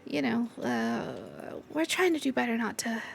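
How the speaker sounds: shy Gouda. Acted. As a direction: stumble shyly over the words. GM voices Gouda.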